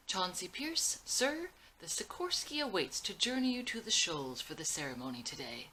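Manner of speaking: a grandson putting on a stiff, high formal voice; a teen practicing a fake posh announcement to his grandfather; fake fancy formal voice. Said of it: "None of this fake fancy stuff".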